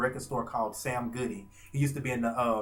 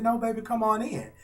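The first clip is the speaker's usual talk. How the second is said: higher, tender invitation; a light take on a singer's voice, higher; imitating a singer; 8 semitones higher than usual. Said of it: "She said".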